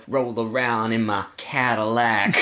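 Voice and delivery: lightly voiced slow rap drawl; a hint of a laid-back rapper, drawn out; a rapper. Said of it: "then you bring in who? a rapper".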